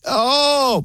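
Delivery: high mock shocked oh; mock surprised gasp. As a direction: fake dismay at the loss. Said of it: "hypocrites who were like".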